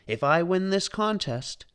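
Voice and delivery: excited father dreaming of winning; lightly voiced inventor; Maurice's voice. A narrator's reading. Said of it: "said Maurice".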